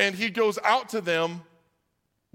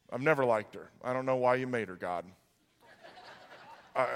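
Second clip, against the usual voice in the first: low, reluctant confession to God; grudging honesty easing into a quiet request; sample prayer; 5 semitones lower, 4 dB quieter than usual. Acted. Models prayer about coworker.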